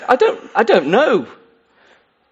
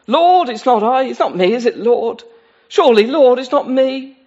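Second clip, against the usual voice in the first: anxious disciples; 4 semitones higher, 3 dB louder than usual. Acted. Disciples going round one by one.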